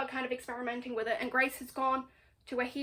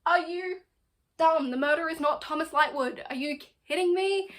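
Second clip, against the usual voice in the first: louder, higher, indignant outburst; outraged rant; 3 semitones higher, 5 dB louder than usual. Real, not acted. Fan ranting at the Inquisitor, loud and outraged. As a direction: yell at the character like he can hear you.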